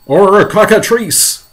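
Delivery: high, loud, slow yell. Acted. Police chief naming a monster, alarmed yell. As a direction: yell out another alarmed guess. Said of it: "yelled the chief of police".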